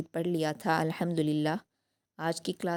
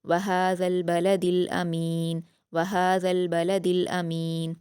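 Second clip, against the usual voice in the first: slow, careful Quranic reading; slow recited verse; tajweed recitation; much slower than usual. Shown as a demonstration. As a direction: draw the verse out slowly. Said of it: "जज्म दे देंगे".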